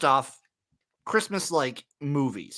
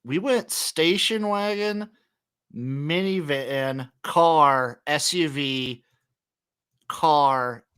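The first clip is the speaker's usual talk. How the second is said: slow listing; much slower than usual. Real, not acted. Echoes the list with drawn-out pauses.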